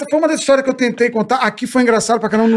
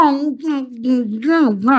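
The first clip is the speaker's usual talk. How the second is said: grumbling hums; 2 semitones higher, much slower than usual. Retold or imitated. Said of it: "reclamando pra caralho".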